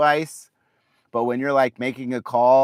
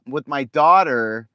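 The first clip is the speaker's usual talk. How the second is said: ordinary delivery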